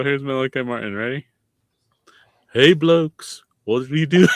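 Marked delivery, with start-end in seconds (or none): 2.5-4.3 jokey put-on Irish accent; lightly hammed-up Irish greeting. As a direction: do a comic Irish impersonation. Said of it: "the Irish accent".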